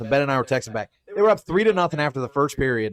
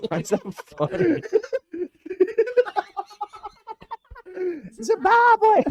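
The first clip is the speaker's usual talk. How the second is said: high-pitched laughter through the words; cracking up, barely getting words out; laughing hard. Real, not acted.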